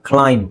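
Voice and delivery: ಕ್ಲೈಮ್ ending on a held m; silent b. Shown as a demonstration. Teacher models climb, b left silent. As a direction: say ಕ್ಲೈಮ್ with no b after the m. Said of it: "ಬಿ ಅವಶ್ಯಕತೆ ಇಲ್ಲ".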